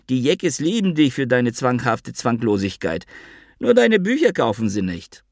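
high, mocking chatter of the fat friend; Avi calling. Avi brushes off the blackmail threat, high and teasing. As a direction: toss it off high and cheeky. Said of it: "Ich hörte Avi rufen".

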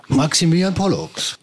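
boxing ring announcer. Pretend. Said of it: "quasi in der blauen Ecke".

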